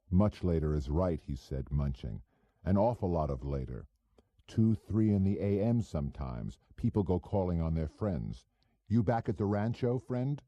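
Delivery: a hint of a cocky small-time operator; pushy hood Goebel. Goebel needling the narrator at dinner, lightly voiced cocky hood.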